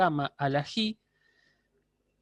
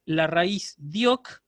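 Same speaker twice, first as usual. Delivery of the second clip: pronunciación lenta; much slower than usual. Shown as a demonstration. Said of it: "Ahí yo tengo edioc".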